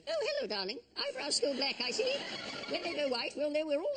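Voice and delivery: a grand lady's high, gracious hello. Acted. Greeting a guest at a state reception, high lady voice. Royal couple sketch, high voice.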